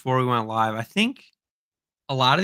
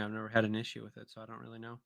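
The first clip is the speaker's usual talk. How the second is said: sultry voice; 13 dB quieter, faster than usual. Real, not acted. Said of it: "You're talking in your sultry voice".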